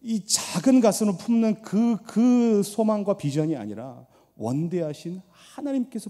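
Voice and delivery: slow, pleading prayer from the pulpit; earnest intercessory prayer; fervent prayer. Acted. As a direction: pray it slowly with feeling.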